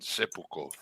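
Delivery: low, soft Russian pronunciation of Sepulchno; Russian accent. Shown as a demonstration. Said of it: "I had to say it in my Russian accent".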